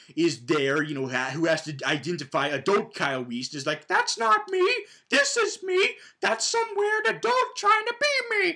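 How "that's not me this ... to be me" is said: very high, squeaky, cartoonish child voice. Retelling a movie scene, the speaker voices the young boy: child Kyle Reese voice. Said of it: "Why do you sound like Mickey Mouse?".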